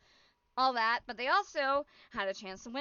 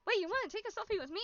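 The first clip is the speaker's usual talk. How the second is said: surprised quote; 8 semitones higher, 3 dB quieter, much faster than usual. Retold or imitated. Gunrun surprised.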